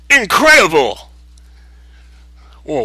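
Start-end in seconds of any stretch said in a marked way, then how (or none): 0.1-1.1 high, slow, amazed character voice; awed exclamation. Acted. The awed character marvels at the heroes, high and drawn out. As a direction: gasp it out in wonder, drawn out high.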